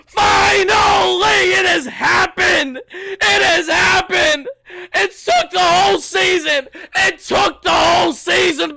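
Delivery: high, drawn-out victory cries; ecstatic shouting. Real, not acted. Fan after a whole season's wait, ecstatic shouting. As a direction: stretch the words out in overjoyed yells. Celebrating the long-awaited clinch.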